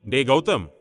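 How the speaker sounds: anxious, urgent call; agitated. Acted. Elder brother suspecting bad news on the phone, agitated. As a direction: call out with rising alarm. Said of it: "Siddharth பதற்றமானான்".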